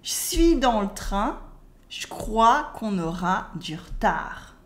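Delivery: "je suis" as "chui", "je crois" as "chcrois"; spoken French, E cut. Shown as a demonstration. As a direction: repeat "du retard" as "dur-tar" for learners. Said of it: "Once again".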